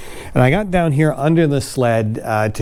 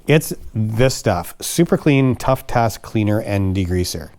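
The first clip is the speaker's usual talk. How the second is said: infomercial product reveal; slower than usual. Acted. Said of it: "Even that looked like an infomercial".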